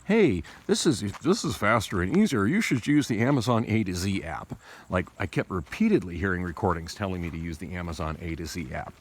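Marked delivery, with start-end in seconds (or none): 0.0-4.6 mock recorded prompt. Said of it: "the recorded prompts are also trying to".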